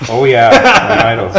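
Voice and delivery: sarcastic. Real, not acted. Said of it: "that was sarcasm".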